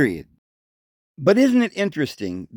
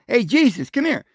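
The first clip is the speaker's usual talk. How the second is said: much higher, mocking Hey, Jesus; mock wrong call; 8 semitones higher than usual. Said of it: "They never said".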